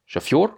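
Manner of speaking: "Chafior" with the accent on final fior; stress on yo. Shown as a demonstration. Teacher repeats the word for driver, stressing final yo. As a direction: stress the yo sound ending "Chafior". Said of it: "on a accentué le yo".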